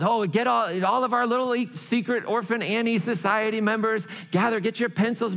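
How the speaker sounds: put-on high-pitched announcer rallying young members; radio announcer calling out. Announcer summoning the secret society members, calling out high. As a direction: pitch it up like an eager radio host. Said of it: "Pierre then calls".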